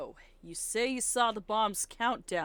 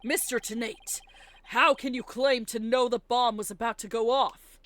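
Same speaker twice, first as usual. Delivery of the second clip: confident defense lawyer; 3 semitones higher, 9 dB louder than usual. Acted. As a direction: call the witness a liar with courtroom swagger. Plays Phoenix pressing witness.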